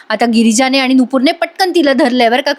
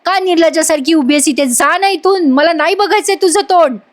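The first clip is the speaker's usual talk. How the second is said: mock yell, pitched up without added volume; retold angry yelling; 5 semitones higher than usual. Ashwin orders Priya out of his sight, retold angry rebuke. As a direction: act out an exasperated rebuke. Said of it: "Ashwin ओरडत असतो प्रियावर".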